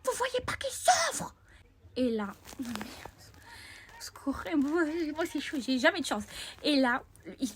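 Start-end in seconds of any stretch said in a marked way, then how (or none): 0.1-1.4 high, slow, crying plea; tearful plea. Retold or imitated. Girl defending bullied boy, tearful. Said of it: "Avec les larmes aux yeux". 2.0-6.2 breathy whisper to the viewers; whispered aside. Real, not acted. Vlogger whispering aside to viewers. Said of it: "whispered aside".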